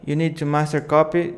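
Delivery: quick, brisk delivery. Shown as a demonstration. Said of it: "I need to make it faster".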